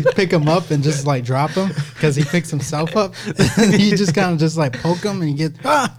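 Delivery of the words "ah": high, short "ah"; a sudden yelp on being poked; mock yelp. Mimics noise made when poked.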